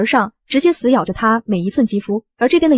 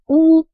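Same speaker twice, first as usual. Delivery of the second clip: fake sobbing; 5 semitones higher, 3 dB louder than usual. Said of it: "擦着眼泪".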